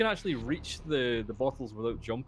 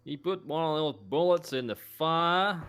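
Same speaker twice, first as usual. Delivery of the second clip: put-on kid telling on him; 6 semitones higher, 4 dB louder than usual. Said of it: "the kid goes".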